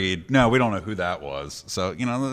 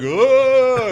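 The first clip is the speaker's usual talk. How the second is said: high, loud witch shriek; witch cry; 8 dB louder than usual. Retold or imitated. Witches emerging.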